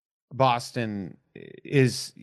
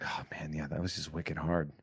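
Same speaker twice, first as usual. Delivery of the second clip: softer, lower Boston "wicked hard"; Boston accent; 6 semitones lower, 12 dB quieter than usual. Retold or imitated. Explaining his Boston slang, a quiet Boston accent. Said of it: "I'll use wicked as an adverb".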